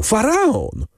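"faraon!" shrieked up high, overflowing with joy; ecstatic cry. A narrator's reading. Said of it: "wołał".

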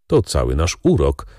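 plain reading voice

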